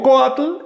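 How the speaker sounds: coatl said slowly with the weight on the O, "co-A" kept light; slow coatl, stress falling on the O. Shown as a demonstration. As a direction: lean on the O of coatl and let the tl close it. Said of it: "el acento recae sobre la O".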